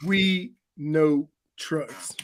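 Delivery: slow announcer tagline; ad slogan voice. Pretend. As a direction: drawl the slogan slowly.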